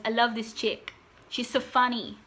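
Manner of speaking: friend's Arabic accent, imitated. Friend saying how funny she is, imitated Arabic accent. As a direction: quote him in a mild Arabic accent. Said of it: "I say in that accent because he's Arabic".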